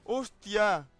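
loud, high exasperated rant; frustrated outburst. Real, not acted. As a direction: blurt out the frustration. Frustrated after failed revive.

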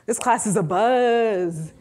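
slow, breezy delight over the class; lightly voiced naive delight. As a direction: savour how lively the class is. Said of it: "I'm just like".

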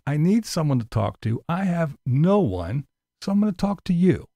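a touch of mocking pathos; mock lonely plea. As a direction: pretend to be lonely and needy.

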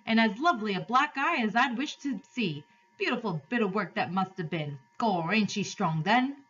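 street onlooker relishing the spectacle; admiring onlooker. Acted. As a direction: admire it like a bystander in the crowd.

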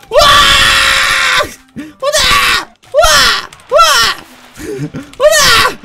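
tiz, yüksek savaş nidası; hızlı koşarken çığlık at; savaş çığlığı. Acted. Hızlı keçi bağırışları. (tiz savaş çığlığı)

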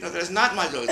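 mock offended lady; indignant old lady. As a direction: refuse the dog flatly. Mrs Goldberg insisting again.

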